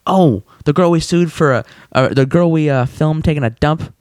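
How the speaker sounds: mock aha, pitch jumping up; sudden recognition. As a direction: act as if it just clicked. Acted sudden recognition after pondering.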